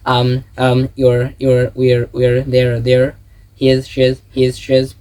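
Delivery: "Um", "you're", "we're", "there" as single merged syllables, in pairs; practice-drill delivery, each reduced form a beat; rapid-repeat contraction drill. Shown as a demonstration. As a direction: run through the contractions in steady rhythm. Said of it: "এরকমই বলতে হবে".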